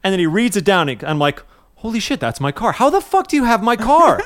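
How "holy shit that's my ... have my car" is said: high, loud, laughing disbelief; can't wrap your head around it; retold amazed outburst; incredulous. Disbelief on the phone.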